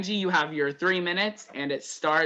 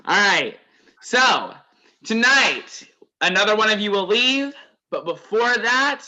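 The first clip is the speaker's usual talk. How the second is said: raised, projected game-show host delivery; host announcement; 3 semitones higher than usual. Real, not acted. Host tells players about tonight's elimination and contest, announcer style. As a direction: announce it to the whole group.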